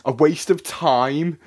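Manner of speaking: "A waste of time" slow, rising in disbelief; incredulous echo. Retold or imitated. Repeating a stranger's odd remark in disbelief. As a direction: drag out "A waste of time" as if it makes no sense. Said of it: "What a weird thing to say".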